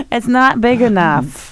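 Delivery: put-on slow, whiny Jewish accent. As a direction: complain about the portions in a Jewish accent. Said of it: "I love doing a Jewish accent".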